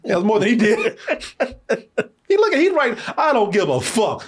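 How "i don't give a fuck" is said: high, drawn-out mock indifference; hammed-up couldn't-care-less delivery, pitched up; mock not caring. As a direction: imitate an actor who couldn't care less, slowly. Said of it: "He's like, "I don't care".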